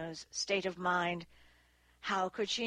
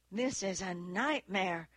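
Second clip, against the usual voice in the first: usual speaking voice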